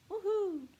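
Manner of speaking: high, loud party whoop; excited cheer. Acted. Duck manning the music at the party, excited whoop. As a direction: cheer like the party just started.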